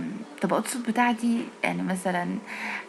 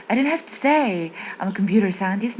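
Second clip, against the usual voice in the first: imitating speaker; 3 dB louder than usual. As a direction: echo his lively rise. (تقليد نغمة المتحدث)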